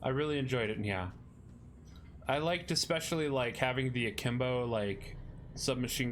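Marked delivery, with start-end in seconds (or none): 0.8-1.1 cutesy nya speak. Pretend. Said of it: "end every sentence with "Nya".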